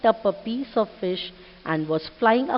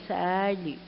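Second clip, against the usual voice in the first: SADLY drawn out, falling and softer; 4 dB quieter than usual. Shown as a demonstration. Teacher shows what plaintively means, 'sadly' said mournfully. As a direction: stretch 'sadly' into a mild mock lament. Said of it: "calling in a sad way".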